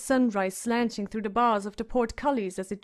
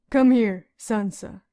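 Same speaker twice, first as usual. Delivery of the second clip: not unkindly; 5 dB louder, slower than usual. A narrator's reading. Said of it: "not unkindly".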